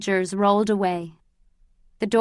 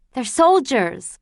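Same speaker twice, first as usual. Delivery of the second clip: slow, higher and louder with joy; elated; 4 semitones higher, 5 dB louder, slower than usual. Acted. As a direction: savour the good news.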